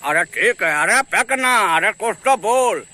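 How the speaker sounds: mimicked rustic Bihari politician; Lalu Yadav. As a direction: prod them like a folksy village leader. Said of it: "Lalu Yadav का हो".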